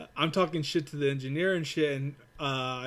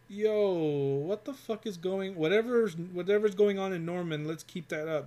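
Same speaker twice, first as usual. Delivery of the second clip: excited boss praise; 4 semitones higher than usual. Retold or imitated. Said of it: "Or you get".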